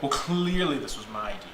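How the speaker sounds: lightly pompous, self-assured declaration; mildly self-important cleric. Acted. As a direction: state it with smug certainty. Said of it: "being very, like, pompous about it".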